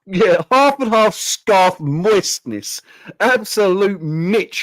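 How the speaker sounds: very slow, scornful, drawn out; mocking drawl. Real, not acted. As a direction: savour every word of contempt. Mocking a cringey fan post.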